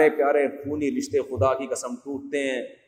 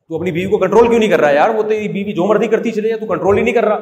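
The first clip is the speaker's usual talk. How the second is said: angry brother; 4 semitones higher, 5 dB louder than usual. Retold or imitated. Brother scolds brother, retold.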